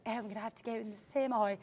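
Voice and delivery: lightly put-on British accent. Trader muttering to himself about getting in, British accent. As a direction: slip into a soft, mock British voice. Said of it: "I don't know why I became British".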